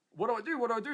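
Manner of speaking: confused dithering. Retold or imitated. Torn between the waitress and Regan, retold confused dithering. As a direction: replay a moment of being at a loss. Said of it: "I was that confused".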